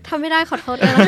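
embarrassed laugh. Real, not acted. After failing the French accent, apologising through laughter. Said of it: "My accent is really bad".

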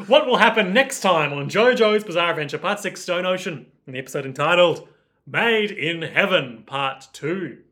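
mock TV announcer teaser; episode preview announcer. Podcaster announces the next JoJo episode, playful announcer voice.

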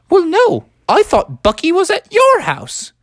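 high, surprised mom voice; a puzzled mother on the phone; Bucky's mom. Acted.

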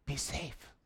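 soft, timid "Be safe"; mock a fearful disciple's caution; timid mock whisper. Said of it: "Andrew goes".

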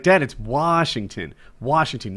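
Washington with a clear "wah", no R; imitated correcting of Washington to "Wahshington"; insistent correction. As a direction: correct dad, Washington without any R. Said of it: "I was like".

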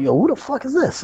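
retold indignant outburst, pitched high; startled challenge. Wrestler retelling turning on whoever hit him, startled challenge. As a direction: act out a high, startled demand. Acted confrontation after being whipped.

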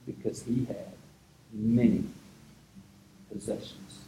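soft, slow, falling storytelling; hushed solemn narration; somber hush. A narrator's reading. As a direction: let the sadness settle quietly. Somber retelling of man leaving.

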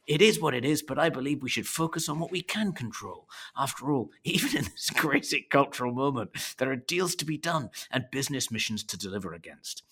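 mock Scottish accent, holding back laughter; restarting the Scottish voice, half laughing. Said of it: "the speaker's Scottish accent".

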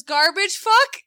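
put-on high, loud little-kid voice mispronouncing truck; toddler voice. Mom imitating her toddler showing a toy truck, high excited kid voice. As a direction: imitate the toddler proudly naming his toy.

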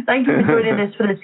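giggling through the thanks; laughing. Real, not acted. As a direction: thank them while still laughing.

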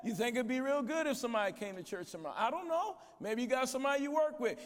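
imitating the pastor. Pastor at the podium asking the crowd to bring someone, a light fast imitation. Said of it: "I love to watch him at the end of these conferences".

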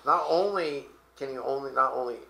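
tripping over his own words; stumbling, restarting the phrase; stuttering. Real, not acted. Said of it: "I'm stuttering over myself".

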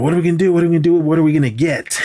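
eager retold questioning; mock excited questions. Voices excited questioning of Miyagi.

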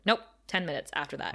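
quick, low-key matter-of-fact imitation; straightforward telling. Buffy correcting Giles on the timing, straightforward. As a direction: report it briskly, no fuss. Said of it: "like, straightforward".

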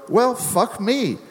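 high, slow, laughing through it; laughing exclamation. Retold or imitated. Retelling his reply to Rutger, laughing. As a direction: blurt it out while cracking up. Shocked punchline while laughing.

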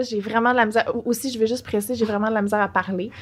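talking with a sore mouth after wisdom teeth; words slurred by a sore, swollen mouth. Real, not acted. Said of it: "Je me suis fait enlever mes dents de sagesse".

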